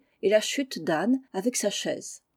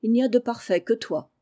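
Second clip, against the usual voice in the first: un peu piqué; 3 semitones higher than usual. Acted. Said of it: "d'un air un peu piqué".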